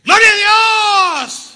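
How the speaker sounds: high, loud, slow shouted Gloria a Dios; a long, drawn-out shout of praise; excessive shout. Retold or imitated. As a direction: bellow it like an overzealous worshipper. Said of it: "que gritaba desmedidamente".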